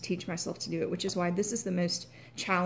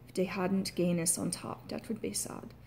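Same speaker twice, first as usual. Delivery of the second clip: Irish demo line, trailing off softer; Irish accent; 4 dB quieter than usual. Shown as a demonstration. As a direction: repeat it in Irish, broad AH vowels. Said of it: "write a sentence to prove my point".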